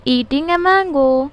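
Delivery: slow dictation. Shown as a demonstration. Teacher dictating example slowly.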